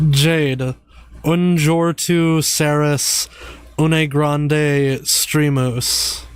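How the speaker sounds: slow French spoken with a heavy American accent; "Jade, un jour tu seras une grande streamus" drawn out in an American accent. Shown as a demonstration. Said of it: "I'm just gonna say it with my American accent".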